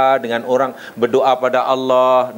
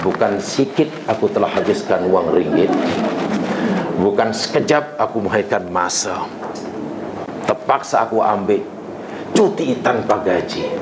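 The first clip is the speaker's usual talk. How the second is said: pleading prayer; 7 semitones lower than usual. Retold or imitated. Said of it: "Lalu kita pastikan".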